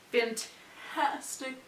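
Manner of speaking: talking while chewing gum; words slowed around a wad of gum. Real, not acted. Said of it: "I'm chewing gum and I'm choking".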